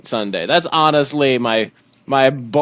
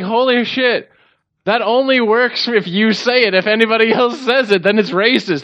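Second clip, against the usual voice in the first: excited high voice; 8 semitones higher than usual. Retold or imitated. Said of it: "I was like".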